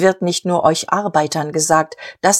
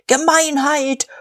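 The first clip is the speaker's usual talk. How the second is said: high, slow "Gemeinheit!"; roared by a crowd; 9 semitones higher, slower than usual. A narrator's reading. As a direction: bellow it out, drawn long. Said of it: "brüllte wie ein Mann". (gebrüllt, hoch und gedehnt)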